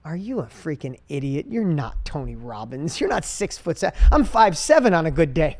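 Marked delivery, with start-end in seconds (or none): 0.0-4.0 self-doubt inner voice. Retold or imitated. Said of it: "the moment I was like".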